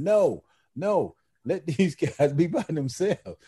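high, emphatic "no" in retelling; retold firm refusal. The main one refusing wives on trips, retold firm refusal.

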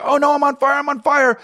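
hammed-up burning victim cry; mock panic. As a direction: play a man on fire, half-joking. Acting a person on fire.

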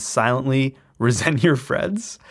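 a small laugh breaking into the words. Real, not acted. Host asks listeners about a drained social battery, laughing. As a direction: let a chuckle slip mid-question. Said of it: "I'm laughing because maybe".

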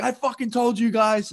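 high, drawn-out imitation of a vindicated coach; told-you-so outburst. Bench coach to his players after being proved right, told-you-so.

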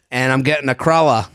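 light Boston guy impression; lightly voiced Boston local telling his story; a hint of a Boston accent. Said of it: "Boston guy?".

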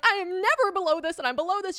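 high, loud alarm; panicked outburst. Retold or imitated. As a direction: re-enact a frantic money panic. Retold panic over bank balance.

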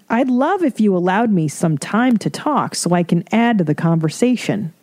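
courteous request, lightly put on; mock politeness. Speaker to a family member who won't stop talking, mock politeness. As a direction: ask politely, faintly prim. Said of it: "politely say".

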